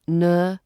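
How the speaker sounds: "Ne-go-she-ate" broken into four beats; four separate syllables; syllables split out. Shown as a demonstration. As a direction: tap out each syllable. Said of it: "there's four syllables in this word".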